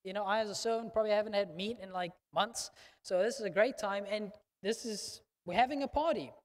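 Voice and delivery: a thrilled servant who hasn't eaten meat in months; excited servant. Retold or imitated. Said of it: "So the servant's like".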